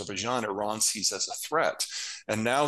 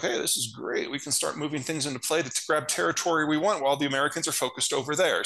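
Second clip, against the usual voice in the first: gleeful opportunist; 5 semitones higher than usual. Retold or imitated. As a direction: rattle it off like a delighted schemer. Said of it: "They were like".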